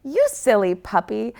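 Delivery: light playful tease; teasing. Acted. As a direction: gently tease the puppy. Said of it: "teases Eye Patch Echo".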